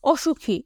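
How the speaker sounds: অসুখী with a thicker "sh"; thick pronunciation. Shown as a demonstration. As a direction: say অসুখী with a heavy, full sibilant. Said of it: "এটা একটু মোটা".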